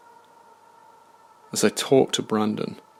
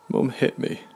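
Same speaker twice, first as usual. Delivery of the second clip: whimpering; 4 semitones higher than usual. A narrator's reading. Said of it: "I whimpered".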